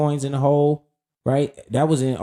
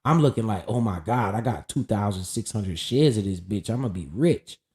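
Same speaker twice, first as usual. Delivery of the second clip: mock excitement; 6 semitones lower, 6 dB quieter than usual. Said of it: "I'm like".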